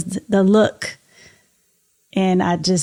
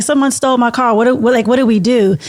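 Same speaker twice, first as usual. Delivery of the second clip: a touch of retold panic, louder; stumbling, flustered mock alarm; retold frantic; 3 semitones higher, 4 dB louder, faster than usual. Wife to husband about the car, mildly frantic. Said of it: "I'm frantic".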